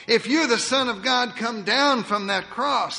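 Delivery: crowd jeering. Acted. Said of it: "they cried".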